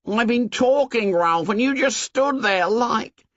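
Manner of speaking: a lightly voiced Piggy, indignant. A narrator's reading. Piggy complaining to Ralph, indignant and high.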